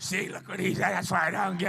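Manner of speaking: lightly voiced scolding aunt, rising to a shout; a hint of a smug aunt; mock told-you-so aunt; imitating the aunt. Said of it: "that aunt I've been talking about".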